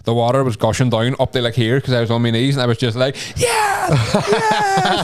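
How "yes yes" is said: huge high cry of relief; joyful shout. Retold or imitated. Soaked and kneeling, relieved shout on finding apartment. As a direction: scream it like you've been saved. Drops to knees, sees flag.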